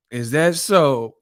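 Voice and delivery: slow, measured question; slow response. Retold or imitated. Martin answering the boy's confession, slowly. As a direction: draw the question out, unimpressed. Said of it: "And he was like".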